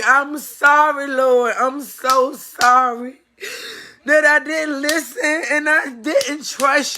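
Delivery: slow pleading apology to God; slow, real remorseful plea to God; pleading prayer. Real, not acted. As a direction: beg the Lord's forgiveness, slowly. Prays aloud asking forgiveness.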